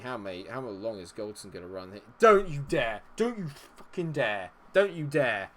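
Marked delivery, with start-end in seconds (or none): 2.2-5.5 loud, high don't you dare at the screen; angry yell. Real, not acted. Gamer yells at the opposing striker about to score, furious. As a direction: bark a warning at the striker.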